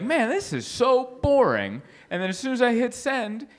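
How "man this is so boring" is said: higher, slow, bored drawl. Retold or imitated. Comic tweeting during the vote count, slow bored drawl. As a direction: stretch it out like you can't stay awake. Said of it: "I was like".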